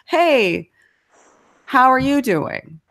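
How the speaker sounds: mock-eager neighbour greeting; exaggerated friendly greeting. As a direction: lay the friendliness on thick. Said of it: "I was exaggerating it in my example".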